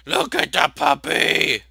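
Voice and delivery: loud, slow, stretched-out shout; insistent urging. Real, not acted. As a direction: draw out each word loudly, insisting. Repeats it more forcefully, drawn out.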